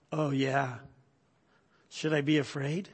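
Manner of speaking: sarcastic, unimpressed woman's voice; lightly voiced mocking camper. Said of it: "mock me like you wouldn't believe".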